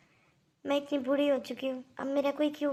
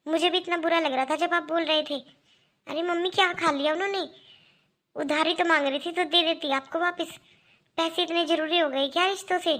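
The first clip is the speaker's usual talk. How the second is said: raised voice, scolding her mother; loud and indignant; 2 semitones higher, 4 dB louder than usual. Acted. Daughter scolds mother loudly. (माँ को ऊँची आवाज़ में डाँटती बेटी)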